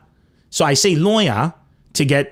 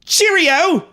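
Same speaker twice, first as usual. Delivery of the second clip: mock British farewell; 14 semitones higher, slower than usual. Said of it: "mock British farewells".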